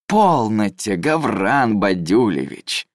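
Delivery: slow, languid dismissal. Acted. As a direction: wave him off lazily and condescendingly. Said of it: "вальяжно помахал холёной ладошкой судья".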